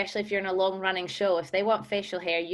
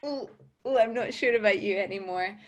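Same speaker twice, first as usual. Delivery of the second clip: hammed-up second thoughts about her own accent; mock doubtful reaction; 2 semitones higher than usual. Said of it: "I was like".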